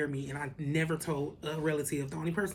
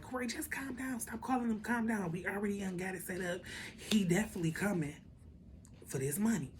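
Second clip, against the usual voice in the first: higher, hushed friend pleading to calm down; soft high plea to stop calling; imitating best friend calming him; 4 semitones higher, 4 dB quieter than usual.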